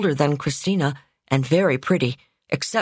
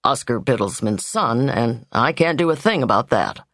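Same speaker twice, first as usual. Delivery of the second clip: wry; 5 semitones lower than usual. Acted. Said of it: "he added wryly".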